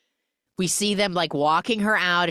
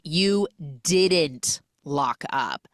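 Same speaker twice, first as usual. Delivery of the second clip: slow scolding; much slower than usual. Retold or imitated. Boss scolding employee.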